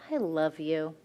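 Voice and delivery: a tender, heartfelt "I love you"; sincere. Shown as a demonstration. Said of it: "you can look at somebody and be like".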